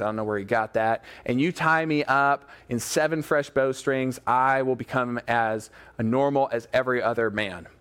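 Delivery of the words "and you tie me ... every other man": dazed. Retold or imitated. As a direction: answer as if lightly in a trance. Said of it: "in kind of a daze".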